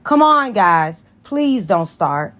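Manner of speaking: calm them down gently; pleading. Acted. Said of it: "Cookie pleaded".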